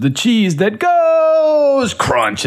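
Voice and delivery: slow, high cool cartoon cat; drawn-out jingle line; Chester Cheetah. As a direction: stretch it out like a smooth mascot. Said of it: "it would be like".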